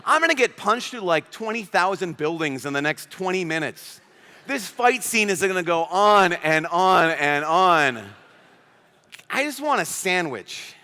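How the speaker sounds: a mock weary superhero, sighing and slow; lightly voiced, worn-out hero groaning about another long fight; tired Superman. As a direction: play Superman fed up with fighting. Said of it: "What if Superman was like".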